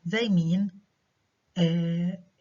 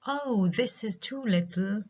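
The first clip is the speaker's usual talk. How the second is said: slow, higher "Oh, this is too little", falling; falling exclamation; 4 semitones higher, slower than usual. Shown as a demonstration. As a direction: draw out "Oh", then fall through "too little". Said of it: "have falling intonation".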